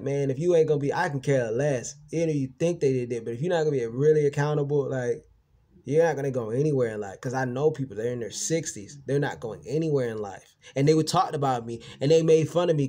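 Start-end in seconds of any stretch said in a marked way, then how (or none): 0.0-7.2 louder and higher, hammering it home; heated retort. Retold or imitated. Telling people to be accountable, loud. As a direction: lay down the law, loud. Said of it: "I'm like".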